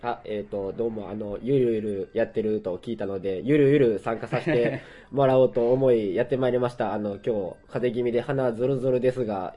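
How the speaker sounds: stuffy nose from a cold; blocked nose nasal voice. Real, not acted.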